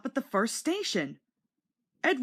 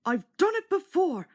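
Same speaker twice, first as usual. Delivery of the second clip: much higher, louder chugging reassurance; puffing uphill; 10 semitones higher, 3 dB louder than usual. A narrator's reading. Edward encouraging James up the hill, high puffing. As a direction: chant it in steady puffs. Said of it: "puffed Edward".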